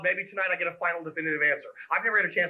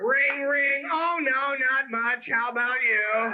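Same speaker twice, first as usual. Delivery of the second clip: bored phone chatter; 4 semitones higher, slower than usual. Retold or imitated. Guy answering phone mid-sex.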